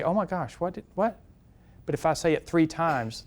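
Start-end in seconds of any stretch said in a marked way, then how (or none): 0.0-1.2 startled bystander. Retold or imitated. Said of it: "are gonna say".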